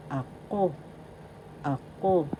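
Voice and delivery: "ako" with a stressed final KO; accent on second syllable. Shown as a demonstration. Teacher modelling "ako" for learners, second syllable stressed. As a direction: land firmly on KO in "ako". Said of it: "The second syllable has the accent".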